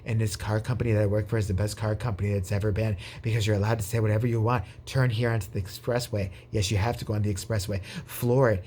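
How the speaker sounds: low, even, droning put-on voice; cult-member salesman. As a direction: imitate a brainwashed test-drive guy. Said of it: "the other cult member".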